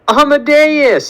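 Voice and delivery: high, drawn-out scream of his name; mother screaming at her son in the doorway. Acted. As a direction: shriek his name in alarm. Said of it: "screams Helen".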